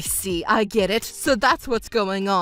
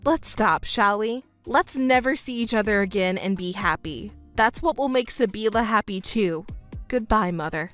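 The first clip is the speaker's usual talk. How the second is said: low, composed farewell; cool finality; 4 semitones lower than usual. Acted. Stepdaughter cutting ties with her mother, cool and final. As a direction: end it calmly and firmly.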